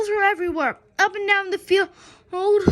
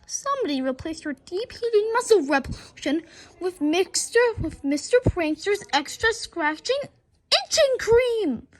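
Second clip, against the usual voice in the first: shouting; 3 semitones higher, 3 dB louder than usual. Acted. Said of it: "shouted the coach".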